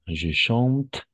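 "chante" ends on a sounded t; silent ending. Shown as a demonstration. French teacher models the present tense, silent endings. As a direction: say "chante" just like its radical, "chant". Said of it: "Todas vamos a pronunciar como el radical".

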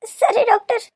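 high, weepy agreement; tearful acceptance. Acted. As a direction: give in through tears. Crying mother accepts doctor's reassurance. (ಅಳುದನಿಯಲ್ಲಿ ಒಪ್ಪಿಗೆ)

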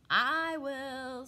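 loud pig voice, odd timbre; keen farm pig; eager pig. Acted. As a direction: grunt it out like a hungry pig.

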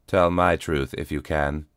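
flat, toneless cyborg voice. Acted. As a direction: say it with no feeling. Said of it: "came a flat voice".

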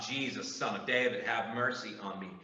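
preacher softly repeating the blind man's plea; subdued cry. Acted. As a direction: say the plea quietly, almost to yourself. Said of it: "The blind man cries out".

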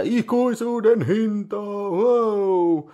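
high, dramatic trailer read of the tagline; movie trailer voice. Pretend. Host reading the box tagline in a hammed-up trailer voice. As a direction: announce it like a cheesy trailer.

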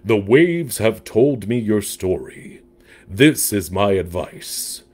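lightly voiced wise sea creature; deep octopus voice. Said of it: "said the octopus with a deep voice".

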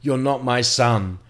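mild mock yell, slow and bitter; imitating mum's slow hateful cry; a hint of a furious mother; retold screaming. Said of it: "she started screaming at me".

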